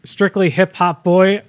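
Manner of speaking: deadpan spoken rap lyrics, little melody; monotone lyric recital. Pretend. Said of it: "like, monotone voice".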